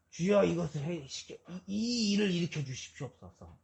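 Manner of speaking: mock fervent shout of a prayer; crying out in prayer. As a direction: beg loudly like the old desperate self. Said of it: "하고 부르짖고 그랬어요".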